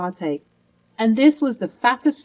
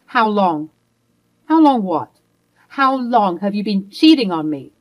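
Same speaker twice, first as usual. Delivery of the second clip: louder, hard falling questions; angry demand; 5 dB louder than usual. Acted. Wife grilling her husband about the affair, angry. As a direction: demand the answer, no patience.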